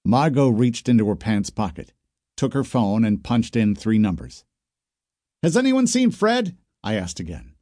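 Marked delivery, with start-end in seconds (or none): 5.4-6.6 high, anxious question; worried owner asking after his missing dog; fear in voice. Acted. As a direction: ask again, scared for the dog. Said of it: "this time with fear in my voice".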